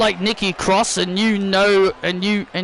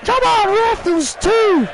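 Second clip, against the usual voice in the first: high, loud protest at the ref; pleading with the referee; 12 semitones higher, 3 dB louder than usual. Acted. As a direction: beg the ref for the count. Arguing the count with referee.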